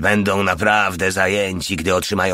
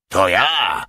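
louder, barked answer into the phone; yell; 3 dB louder than usual. Acted. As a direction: bark it down the line. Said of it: "wrzasnął generał". (generał wrzeszczy do telefonu, głośno)

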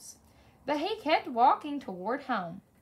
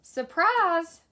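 high, loud call of surprise; shout; 5 semitones higher, 7 dB louder than usual. A narrator's reading. Brew surprising P J on his walk home, shouted. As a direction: call it out big and drawn out. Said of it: "Puddles shouted".

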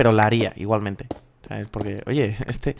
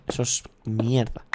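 whisper; 6 dB quieter than usual. Real, not acted. Joking about serenity.

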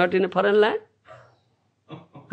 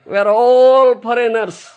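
laughing; 4 semitones higher, 6 dB louder than usual. Real, not acted. Laughing at the audience.

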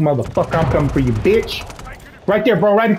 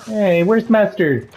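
slow, drawn-out, raised pitch; drawn-out meme quote; 4 semitones higher, much slower than usual. Retold or imitated. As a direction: stretch each word like a catchphrase. Repeating the catchphrase again.

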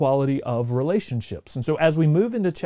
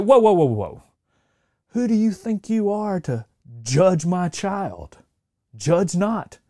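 mock indignant parent. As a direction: play the offended parent to the hilt. Indignant parent scolding praiser.

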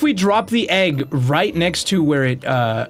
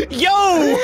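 imitating startled yell; 12 semitones higher than usual. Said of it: "Molly comes out the closet and says".

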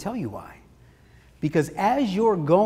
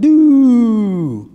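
deflating doo; 8 dB louder than usual. Retold or imitated. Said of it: "Your confidence level just went".

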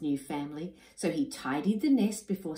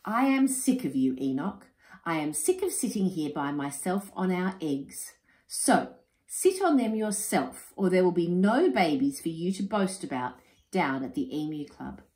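fed-up wife. Acted. Wife ordering Enoch onto the nest, mildly indignant. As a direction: lay down the ultimatum. Wilhelmina's ultimatum.

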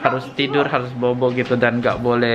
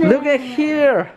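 excited anime fan; 11 semitones higher, much slower than usual. Acted. Touring cottage in put-on voice.

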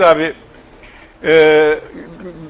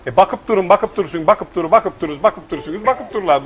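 lightly voiced Muğla dialect recitation; Muğla accent. Teacher giving pupils the correct forms, confident Muğla accent. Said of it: "Öğretmen Muğlalı bizim".

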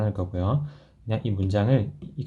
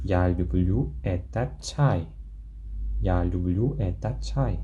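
slow model sentence; 2 semitones lower, much slower than usual. Shown as a demonstration. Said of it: "어떻게 한다고요".

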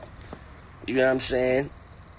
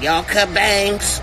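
mock dainty question; 6 semitones higher, 4 dB louder, slower than usual. Mocking rapper at barber shop.

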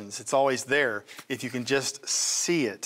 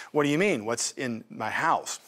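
offended widow; 4 semitones lower than usual. Retold or imitated. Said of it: "She was actually offended by the question".

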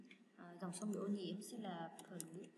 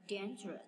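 "dangerous" punched on its first syllable, louder; stress on first syllable; 5 dB louder than usual. Shown as a demonstration. Teacher drilling word stress, first syllable of "dangerous" stressed. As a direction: hit DAN in "dangerous". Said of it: "nhấn âm đầu luôn".

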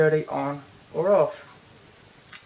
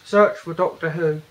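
louder, carefully spoken command to the phone; clear voice command; 5 dB louder than usual. Real, not acted. Reviewer speaking a search command to his phone, loud and clear.

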